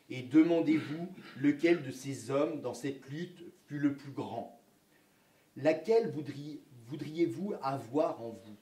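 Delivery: put-on measured, earnest reading of the old father's lesson; reading aloud. Teacher reads the textbook father's lesson to class, reading aloud. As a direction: read it as a schoolbook sermon to a child.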